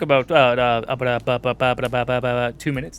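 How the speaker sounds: stuck repeating about; stammering on one word; stuttering. Real, not acted. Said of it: "Okay, Porky Pig, calm yourself".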